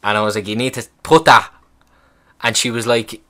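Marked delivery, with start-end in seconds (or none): 0.5-1.5 loud, startled blurt of disbelief; a patient hearing where the swab goes, startled outburst; shocked disbelief. Retold or imitated. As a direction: blurt it out, alarmed at the idea. Shocked reply to back passage.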